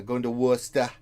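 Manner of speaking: Worcester said casually as "WUSS-tuh"; local Boston pronunciation. Real, not acted. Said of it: "I just say it like that".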